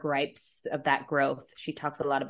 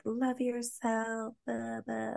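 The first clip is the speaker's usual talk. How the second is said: mocking self-help; 6 semitones higher, 7 dB quieter, much slower than usual.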